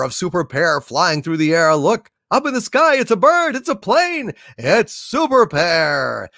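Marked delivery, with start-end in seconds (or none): 1.8-6.3 high, excited superhero intro calls; superhero announcer. Acted. Streamer hailing a Super Pair donation, announcer. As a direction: herald the hero like an old serial announcer.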